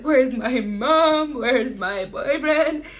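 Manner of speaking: slow, drawn-out tearful plea; emotional. Retold or imitated. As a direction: whine it like a groggy patient. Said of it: "I woke up very emotional".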